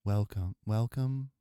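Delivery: hammed-up ASMR greeting to the viewer; mock ASMR. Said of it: "should I have music for A S M R or not?".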